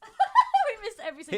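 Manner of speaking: loud laugh through the words. Real, not acted. Co-hosts botch the outro, laughing loudly. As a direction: crack up mid-sentence.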